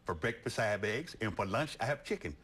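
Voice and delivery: a lightly voiced farm kid; kid voice, Southern. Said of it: "He said".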